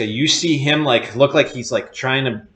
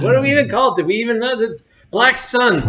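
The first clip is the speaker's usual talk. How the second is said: high laughing questions; 13 semitones higher, 5 dB louder, faster than usual. Real, not acted. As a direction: laugh it out, amused. Laughing at forgotten name.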